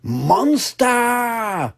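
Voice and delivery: put-on high child call; high toddler calling out; calling out loudly. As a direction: call out as loud as a toddler can. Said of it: "called George as loudly as he could".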